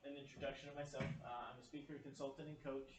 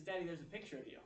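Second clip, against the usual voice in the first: lightly voiced small child, higher; a hint of a young child; little son's voice; 5 semitones higher than usual. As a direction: imitate a child pointing something out to dad. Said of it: "He says".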